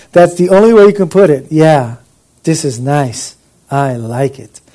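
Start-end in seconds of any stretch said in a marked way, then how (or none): 1.5-4.6 acted relaxed approval; refreshed contentment. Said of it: "it means to breathe out".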